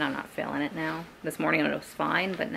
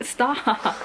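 higher, louder sudden stop; sharp stop; 6 semitones higher, 5 dB louder than usual. Real, not acted. Vlogger telling her pet to stop, raised voice. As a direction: call out to stop them.

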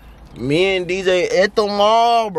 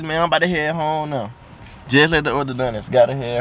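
new braces on teeth; speaking through fresh brackets; talking with braces; 2 semitones higher than usual. Real, not acted. Seen 1: Metal brackets and wires clearly visible on teeth while speaking.

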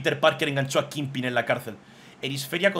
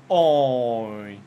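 startled ay; 2 semitones lower, 5 dB louder than usual. Real, not acted. Reacts to a drawing.

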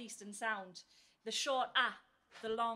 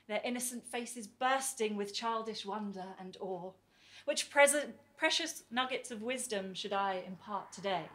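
measured, lilting verse delivery; poetry recital. Acted. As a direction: recite it as an idyllic classroom fantasy. Recites poem about idealised classroom.

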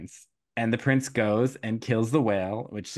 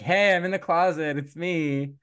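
calling out; 6 semitones higher than usual. Retold or imitated. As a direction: shout to be found, then drop. Trembling calling from locked closet.

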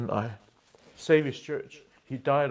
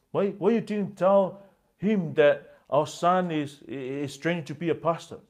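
angry husband; 4 semitones higher, 5 dB louder than usual. Retold or imitated. Husband keeps scolding his wife.

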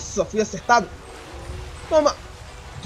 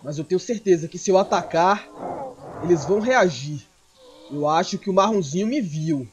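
normal talking voice

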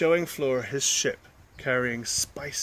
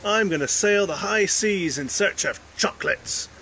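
excited play; 6 semitones higher, 6 dB louder than usual. Acted. Children's play voices.

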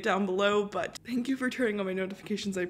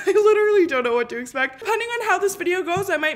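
laughing; 9 semitones higher, 6 dB louder, faster than usual. Real, not acted. Laughing while talking.

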